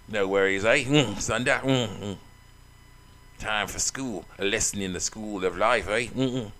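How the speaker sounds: easygoing put-on Australian accent. Bully promising kids a lesson, amateur Australian accent. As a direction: play a laid-back Aussie brawler. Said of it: "Give an Australian accent, I like that".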